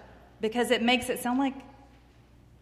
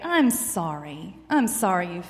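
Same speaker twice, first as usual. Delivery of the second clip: sympathetic friend; 3 semitones lower than usual. Shown as a demonstration. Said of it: "You come as a friend".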